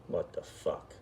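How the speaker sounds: breathy whispered curse, half asleep; hushed and groggy, just waking up; whispered what the fuck. Retold or imitated. Woken by the beeper at dawn, whispering in disbelief.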